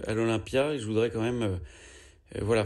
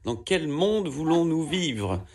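mock outrage; 2 semitones higher than usual. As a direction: play up the outrage like a speech. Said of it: "Alors moi, je dis".

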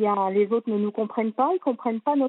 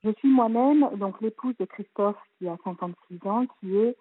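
muffled speakerphone sound; through a tube. Real, not acted. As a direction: voice sounds hollow, like in a pipe. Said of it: "on dirait que vous parlez dans un tuyau".

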